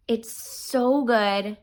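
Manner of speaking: very slow, savouring It's so good; lingering slow praise; slow drawn-out gush. Real, not acted. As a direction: let It's so good stretch out. Gushing, drawn out slowly.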